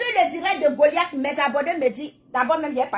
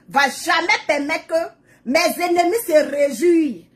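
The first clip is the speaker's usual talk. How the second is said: prayerful preaching. Acted. To her followers, declaring God protects her, preaching. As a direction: lean into the prayer, then rise up declaring.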